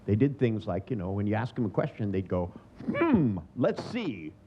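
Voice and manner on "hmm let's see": slow, musing hum before the words; drawn-out thinking-aloud voice; pondering. Retold or imitated. Person asked a question, slowly musing over the answer.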